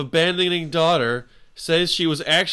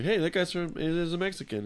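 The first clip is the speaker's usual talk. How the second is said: casual; 2 semitones higher, 6 dB quieter than usual. Shown as a demonstration. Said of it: "depends on how you say it".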